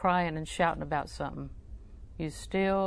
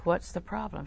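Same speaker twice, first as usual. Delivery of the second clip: soft, careful question; lowered voice; 6 dB quieter than usual. Retold or imitated. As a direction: lower your voice for someone in distress. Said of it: "lower your voice".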